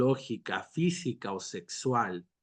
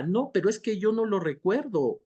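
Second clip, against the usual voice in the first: higher-pitched mock protest; protesting denial; 7 semitones higher than usual. Forgetful person answers the witness, protesting. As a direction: plead not remembering, as an acted quote.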